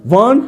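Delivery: want, t merged into the next word; teacher models want for the class; want with t swallowed. Shown as a demonstration. Want, t dropped. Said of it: "ये टी इसके साथ मिल गई".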